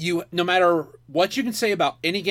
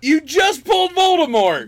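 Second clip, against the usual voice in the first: laughing; 7 semitones higher, 4 dB louder than usual. Real, not acted. Laughing shout over the pull.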